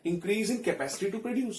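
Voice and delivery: slow, even dictation pace; dictating notes. Shown as a demonstration. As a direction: read it out slowly so students can write. Teacher dictates notes in English. (धीमी गति से notes लिखवाना)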